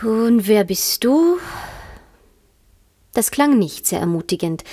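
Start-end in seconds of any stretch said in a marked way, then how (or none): 0.0-1.4 slow, lazy, uninterested question; bored caterpillar. Acted. Caterpillar to Alice, bored and drawn out. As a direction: ask as if it hardly matters.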